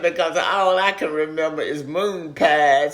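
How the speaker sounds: real laughter through the words; laughing. Real, not acted. Elderly interviewee recalls childhood store's moon pies to interviewer, laughing. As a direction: talk while laughing at a fond memory. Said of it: "I'm laughing".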